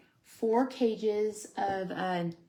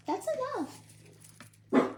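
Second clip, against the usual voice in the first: drawn-out scold; 4 dB quieter, much slower than usual. Real, not acted. Yelling at barking dogs.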